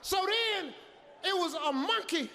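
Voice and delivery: gasping, terrified after the run; panicked, out of breath. Retold or imitated. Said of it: "I was breathing so hard".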